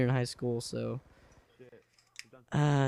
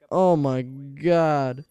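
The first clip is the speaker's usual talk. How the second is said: slow, louder drawn-out dismay; hammed-up slow exasperation; mock dread; 5 dB louder, much slower than usual. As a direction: stretch it out in retold horror. Retold dread at seeing cameras.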